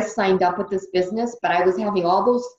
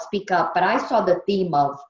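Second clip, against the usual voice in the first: ordinary talk, nothing marked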